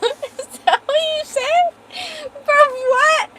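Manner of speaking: incredulous. Real, not acted. Incredulous at chat message.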